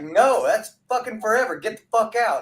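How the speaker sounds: high-pitched retold New York ejection; New York accent. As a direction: imitate a New York pizza guy laying down the law. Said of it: "they had the accent and everything".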